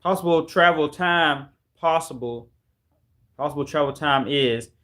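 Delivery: "possible travel time" said with the words reversed; backwards speech. Shown as a demonstration. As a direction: speak "If time travel is possible" back to front. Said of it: "I was trying to talk backwards".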